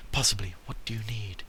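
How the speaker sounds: lightly voiced Scottish-ish merchant; a hint of a Scottish merchant; put-on merchant accent. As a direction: read the merchant in a made-up accent. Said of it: "He's now Scottish".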